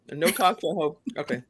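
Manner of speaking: ice in mouth. Real, not acted. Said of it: "I'll put a piece of ice in my mouth".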